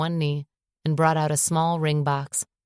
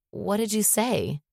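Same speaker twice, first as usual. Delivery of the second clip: muffled; 5 semitones higher than usual. Acted.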